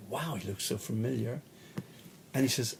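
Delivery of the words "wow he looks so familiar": whispered, half to himself; awed whisper. Retold or imitated. Walking into the room, seeing a famous musician, awed whisper. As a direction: breathe it out in wonder. First sight of a famous musician.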